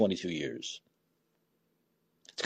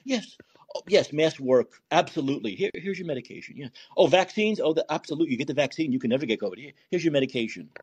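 calm placating doctor. Pretend. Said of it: "I wish we could do that".

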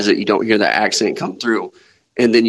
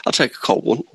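cowboy at a bar. Acted. Co-host joining the joke about walking into a bar, cowboy voice. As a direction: play a Southern cowboy ordering. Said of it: "you're riding a horse".

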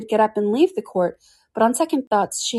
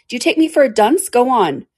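high, louder sharp retort; sharply; 6 semitones higher, 5 dB louder than usual. Acted. The king snapping at the Hatter, high sharp retort. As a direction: cut him off impatiently. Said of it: "said the king sharply".

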